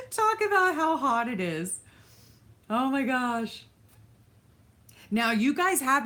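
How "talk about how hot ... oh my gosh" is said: high, helpless laughing voice; laughing hard. Real, not acted. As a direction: squeal it out through real laughter. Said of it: "so I shouldn't laugh too hard".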